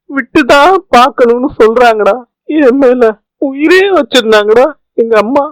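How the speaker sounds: distraught son, understated tears; Gopi, acted crying. Son tells his friend he failed his mother, acted tearful lament. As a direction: lament helplessly, as if close to crying. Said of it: "சின்ன பிள்ளை மாதிரி அழுதுகிட்டு இருக்க".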